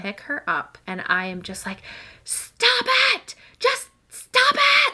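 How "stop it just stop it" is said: loud, high exasperated yell. Retold or imitated. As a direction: snap at the toddler, full force. Mom yelling at toddler.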